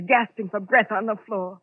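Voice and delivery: usual speaking voice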